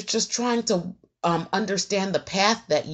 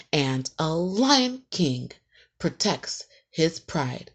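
slow, measured prayer with long pauses; unhurried plea, softening at each close; mantra to the universe; slower than usual. Shown as a demonstration. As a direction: recite a personal mantra, phrase by phrase. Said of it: "this is me speaking to the universe".

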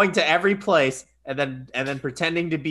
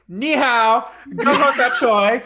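high, loud, hammed-up restaurant order; playful mock holler on entering; 6 semitones higher, 5 dB louder, much slower than usual. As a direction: call it out boldly, imitating an overconfident friend. Mimicking friend barging into restaurant.

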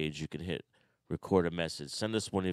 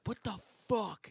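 mock surprise; 13 semitones higher than usual. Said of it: "and you're like".

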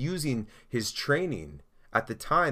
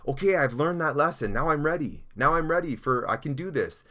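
higher-pitched, acted eagerness; eager overconfidence; 5 semitones higher than usual. Believer after one lesson, acting out eager overconfidence. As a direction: imitate someone sure they are ready. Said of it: "sometimes we can feel that way".

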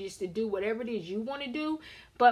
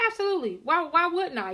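high, louder sassy comeback; defiant retort; 7 semitones higher, 5 dB louder than usual. Retold or imitated. To her husband, a high loud defiant comeback. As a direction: fire it back at him, loud and high.

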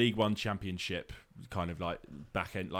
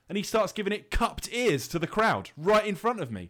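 laughing; 7 semitones higher, 3 dB louder than usual. Real, not acted. Laughing while telling indignant story.

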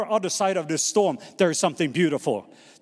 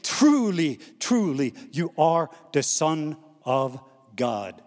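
awed worship; 3 semitones lower, slower than usual. A narrator's reading. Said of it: "they worshipped him, saying".

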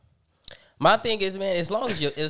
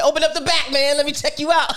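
hype friend; 14 semitones higher, 7 dB louder than usual. Retold or imitated. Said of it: "I would've".

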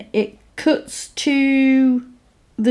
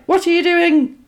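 higher, startled what are you doing; startled question; 8 semitones higher than usual. Retold or imitated. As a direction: ask it caught off guard. Retelling film, startled girl.

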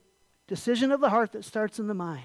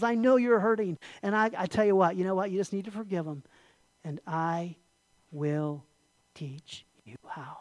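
gentle God; 3 semitones lower than usual. Retold or imitated. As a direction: comfort someone who is hurting. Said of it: "God comes along and says".

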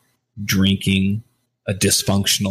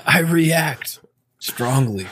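higher, laughing echo of his friend's line; mocking echo with a laugh; 8 semitones higher, much slower than usual. Co-host mockingly repeats his friend's confession, laughing. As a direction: laugh and throw his words back at him. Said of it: "laughs, mocking friend's line".

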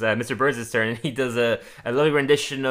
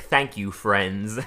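slow, lower quoted thanks; hesitant foreign word; 4 semitones lower, 4 dB quieter, much slower than usual. Retold or imitated. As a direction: draw it out, pitched down. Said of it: "the way you say friends".

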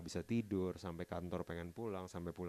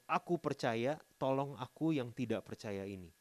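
raised pleading cry of a desperate father; a father begging for faith, raised voice; father's cry; 4 semitones higher, 6 dB louder than usual. Retold or imitated. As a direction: cry out the plea, higher and louder. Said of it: "ayah anak itu berteriak".

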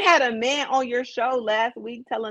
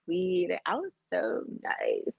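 mocking sweet praise; 5 dB quieter than usual. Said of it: "Everyone's just like".

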